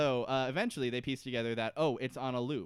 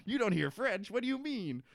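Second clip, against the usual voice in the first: higher, incredulous taunting; mock Sawyer mockery; 7 semitones higher, 5 dB louder than usual. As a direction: needle her like a sneering castaway. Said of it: "And Sawyer's like".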